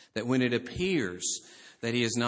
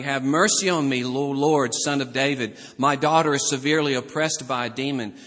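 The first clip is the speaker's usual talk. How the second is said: raised-voice plea, mildly acted; crying out; 7 dB louder than usual. Canaanite woman begging Jesus for her daughter, mild crying out. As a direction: call out a plea with some force. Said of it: "was crying".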